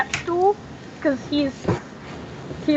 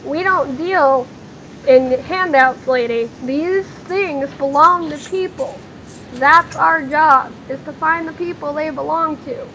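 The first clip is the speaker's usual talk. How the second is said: slow, emphatic refusal, lightly acted; understated put-down, each phrase drawn out; mildly dismissive; slower than usual. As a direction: lay it down slowly with a touch of scorn. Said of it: "he just kinda snorts and he goes".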